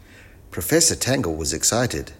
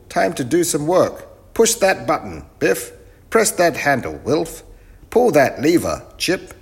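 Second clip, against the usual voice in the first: loud, high commands; bossy professor; 8 semitones higher, 6 dB louder than usual. Acted. Professor orders the children to work, loud and high. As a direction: chivvy the crew in a high, loud voice.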